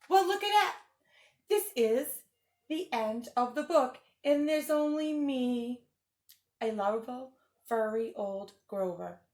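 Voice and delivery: lightly voiced furry blue monster, fretful and pleading; Grover voice. Teacher reading the book to kids as a worried Grover. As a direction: read it as a nervous puppet monster begging the kids.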